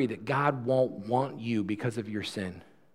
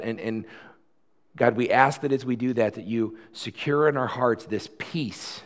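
earnest pastoral prayer with rising fervent peaks. Real, not acted. Pastor praying for the congregation before communion, earnest. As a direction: pray it sincerely over the people.

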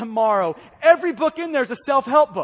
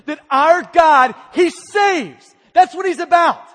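loud, slower "our God, he saves"; exultant proclamation; 4 semitones higher, 8 dB louder than usual. Real, not acted. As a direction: proclaim it like a hymn line.

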